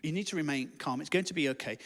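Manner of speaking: low, soft, hesitant reassurance; very calm. Acted. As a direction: play the calm midwife breaking bad news gently. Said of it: "stays very calm and says".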